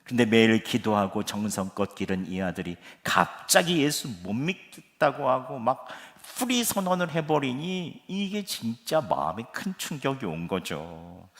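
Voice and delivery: ordinary talk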